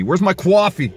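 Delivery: calling out. Pretend. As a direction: call out across the house. Calling out for coffee.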